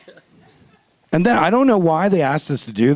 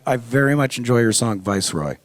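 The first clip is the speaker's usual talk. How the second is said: fan impression; 7 semitones lower than usual. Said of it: "come up to you going".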